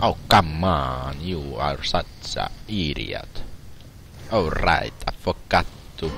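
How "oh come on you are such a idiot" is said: mock Italian English; fake Italian accent. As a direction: play it as a pretend Italian. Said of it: "Try to do a fake Italian accent".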